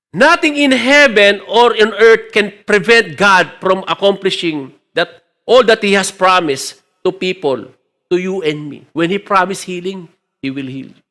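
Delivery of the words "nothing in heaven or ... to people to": slow emphatic preaching; a preacher proclaiming God's power. Acted. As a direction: declare it slowly from the pulpit. Preaching at full force.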